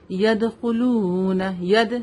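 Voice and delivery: يَدْخُلُونَ with a bouncing, echoed d; qalqalah. Shown as a demonstration. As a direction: slowly bounce the دال in ید. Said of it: "دال پر ہم قلقلہ کریں گے". (دال پر قلقلہ)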